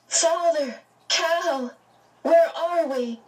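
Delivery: startled high calls to father; calling out. A narrator's reading. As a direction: call out in confusion. Meg calls out, bewildered.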